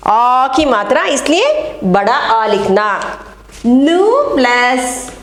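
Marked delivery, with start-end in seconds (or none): 3.7-5.1 slow syllable spelling. Shown as a demonstration. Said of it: "यहाँ पर देखिए नी".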